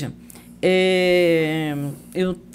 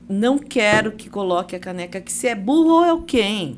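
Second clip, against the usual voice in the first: harsh. Acted. Wife imitates husband's way of telling off a colleague, harsh. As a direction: scold with rising impatience. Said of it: "Ou muito dura".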